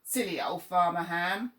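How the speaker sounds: loud sing-song jeer; jeering shout. Acted. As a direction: crows taunting the farmer again.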